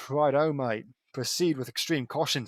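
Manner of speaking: put-on Australian accent. Playing along with Lincoln, Australian accent. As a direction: answer like an Australian explorer's mate. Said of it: "I say in an Australian accent".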